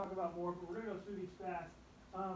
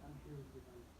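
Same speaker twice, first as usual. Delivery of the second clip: hushed father's comfort at the bedside; tender hush; 5 semitones lower, 15 dB quieter than usual. Retold or imitated. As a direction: soothe a frightened child to sleep. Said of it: "I just kinda whispered in his ear".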